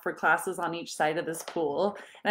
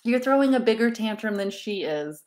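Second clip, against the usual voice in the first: self-scolding inner voice; 6 semitones higher, 4 dB louder than usual. Retold or imitated. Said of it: "some aha came up like".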